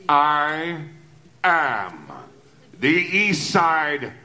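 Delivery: slow, deliberate, each word set apart; slow menacing emphasis. Acted. Killer slowly spelling out to the inspector who he is. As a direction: spell it out as to a fool.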